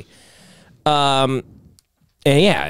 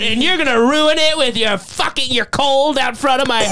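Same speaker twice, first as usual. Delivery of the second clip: mock arrogant rant; 5 semitones higher than usual. Ranting as the arrogant man.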